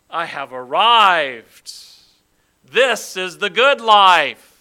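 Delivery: slow, loud, self-satisfied sigh of content; loud satisfied rich man. Acted. Preacher voicing the rich man gazing at his feast.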